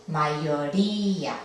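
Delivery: Mayoría said slowly, the I and A kept apart; slow syllable split. Shown as a demonstration. Teacher showing the hiatus to students, slow syllables. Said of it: "queremos separar la I".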